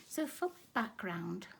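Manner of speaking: throaty, catching on a tickle; frog in throat. Real, not acted. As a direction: talk through a tickle in the throat. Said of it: "I've got a tickle in my throat".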